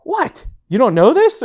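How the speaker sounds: very high mock-innocent surprise; high, teasing disbelief; imitating incredulous wife. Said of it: "she's acting, she's looking at me like".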